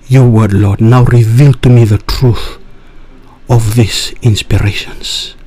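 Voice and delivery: prayer. Real, not acted. Leads listeners in prayer.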